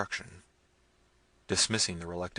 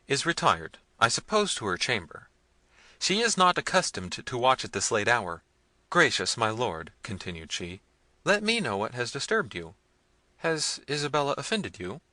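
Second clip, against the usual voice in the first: usual speaking voice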